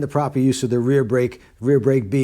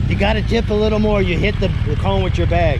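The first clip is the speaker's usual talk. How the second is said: loud, high calls across the range; yelling to rider; 7 semitones higher, 5 dB louder than usual. Real, not acted. Instructor yelling to a student on a motorcycle, loud and high. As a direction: shout so the distant rider hears. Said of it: "they think I'm yelling at the riders".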